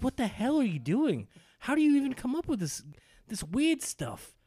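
high, stretched out what the hell; mock outrage at a wrestler's weird stuff; incredulous disbelief. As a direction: sound baffled by a crazy move. His reaction to Ibushi's wild suplex.

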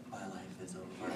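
low, soft wail of doom through laughter; mock dramatic despair. Howl on the floor over hair colour, mock despair. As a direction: give up melodramatically, quiet and low. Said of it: "Stop being so dramatic".

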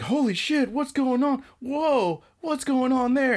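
high, startled onlookers' voices; alarmed crowd. Retold or imitated. Classmates seeing a girl faint, high mock alarm. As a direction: imitate a flustered crowd, pitched well up. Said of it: "And everybody's like".

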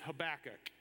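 "Habakkuk" with stress on the second syllable, huh-BACK-uk; option B pronunciation. Shown as a demonstration.

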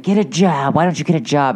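loud, badgering mock nag; scolding retold demand. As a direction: re-enact a kid bossing a grown man. Kid scolding father, retold.

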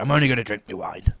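a lightly husky retold woman; hint of her husky throat; husky imitation. Woman sitting down with wine, lightly husky. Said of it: "And this is how she talked".

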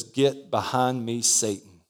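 Jesus rebuking Peter in a low, grave voice; stern rebuke. Acted. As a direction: rebuke him quietly and gravely.

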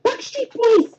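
put-on high excited French accent. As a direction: shout it in a thick French accent. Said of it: "thick Fr-, French accent".

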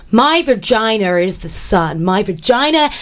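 lightly put-on American accent, reciting with mock pride. Sending up empowerment poets, in a mild mock American accent. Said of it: "I'm gonna do it in an American accent".

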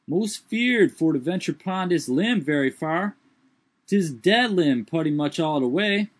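high, distinct dialect character voice; old servant voice. Acted. Jupiter's dialogue voiced.

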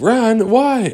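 high, loud startled question. Acted. Kids shouting back at the Lost Boys, high and startled. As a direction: yelp it back in confusion.

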